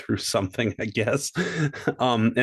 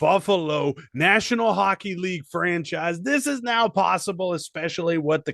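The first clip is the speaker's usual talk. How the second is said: higher-pitched mock ad read; hard-sell ad parody; 7 semitones higher than usual. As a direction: keep the pitch bouncing along, easing at the end. Continues the sponsor read.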